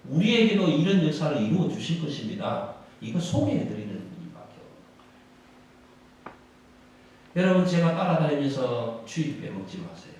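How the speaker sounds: ordinary talk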